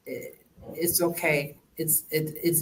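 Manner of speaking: gentle hushed comfort; soothing. Retold or imitated. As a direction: niece softly comforting her grieving aunt, quiet and tender. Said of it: "And I'd be like".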